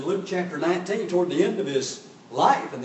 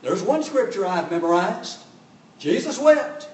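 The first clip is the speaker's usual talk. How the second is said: louder and higher, a jokey boast; mock-proud quip, much louder and higher; mock proud joke; 3 semitones higher, 6 dB louder than usual. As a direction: ham up the smug one-liner like a punchline. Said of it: "I've heard people joke and say".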